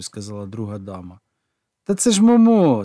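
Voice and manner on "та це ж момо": high, louder, delighted laugh; laughing exclaim. A narrator's reading. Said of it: "сміючись, вигукнув Джіджі".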